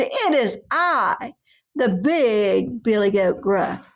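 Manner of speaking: slow, proud big goat. Acted. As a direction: announce it like a bold giant goat.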